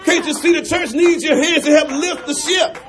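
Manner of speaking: pleading captain, preacher's fervour; a hint of an urgent captain. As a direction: press him with urgent questions. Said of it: "The captain continues".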